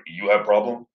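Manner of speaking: lightly attempted Russian accent. Reviewer quoting Yuri to viewers, light mock Russian accent. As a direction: imitate a Russian asking curtly. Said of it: "in his thick, uh, Russian accent".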